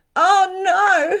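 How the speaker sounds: very high, very loud, shrill, frightened yelp. Retelling lying in bed after hearing a ghost was there: retelling own scared cry. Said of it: "And I got scared".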